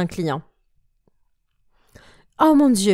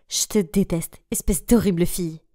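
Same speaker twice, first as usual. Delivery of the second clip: whispered hatred; 3 semitones lower than usual. Acted. Mandy craque contre Anna.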